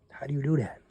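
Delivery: soft whispered question, resigned; defeated whisper. Real, not acted. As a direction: whisper it after a heavy sigh. Whisper after a sigh.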